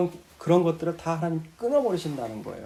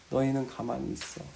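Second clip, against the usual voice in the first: God speaking; 7 semitones lower, 10 dB quieter than usual. Retold or imitated. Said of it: "뭐라고 말씀하세요?".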